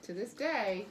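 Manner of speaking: "day" held up before a pause; pause at the comma. Shown as a demonstration. Teacher praising a pupil's comma, marking the pause after "day". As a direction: echo the reading, setting off "To this day". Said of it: "you pause".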